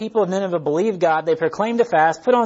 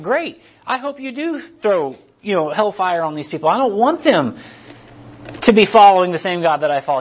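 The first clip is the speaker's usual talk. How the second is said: mock bitter Jonah; 3 semitones higher, 4 dB louder than usual. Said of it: "He just wants these people to die".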